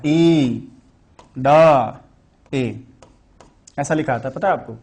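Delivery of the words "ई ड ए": "ई ड ए", each sound alone with long pauses. Shown as a demonstration. Teacher breaking down the Vedic word, "ई ड ए" sound by sound. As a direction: separate "ई", "ड" and "ए" completely. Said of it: "तो वहां क्या आता है".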